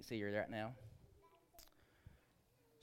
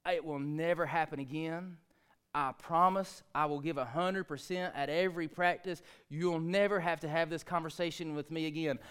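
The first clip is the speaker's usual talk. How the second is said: tearful pleading. Retold or imitated. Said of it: "crocodile tears".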